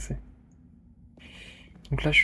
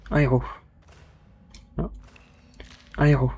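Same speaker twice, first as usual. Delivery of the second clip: loud spell command; shouted spell; 5 dB louder than usual. Real, not acted. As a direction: yell the spell at the mic.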